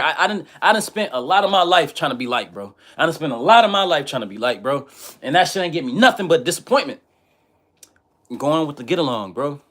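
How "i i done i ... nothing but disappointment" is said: high, loud, worked-up complaint; heated venting. Real, not acted. Telling viewers his regrets, high and worked up. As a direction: let the frustration push it high. Venting about being liked.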